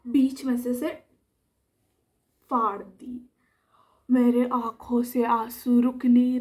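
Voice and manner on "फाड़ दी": hushed reveal; breathless whispered punchline; dramatic whisper. Shown as a demonstration. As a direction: whisper it like a shocking secret. Dramatic reveal of torn notebook.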